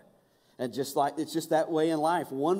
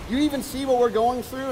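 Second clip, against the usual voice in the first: higher, pleading call to God; mild crying out; 8 semitones higher than usual. Retold or imitated. Believer crying out to God in trouble, mild desperate plea. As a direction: cry out to God, lightly acted. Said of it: "You've cried out to God and said".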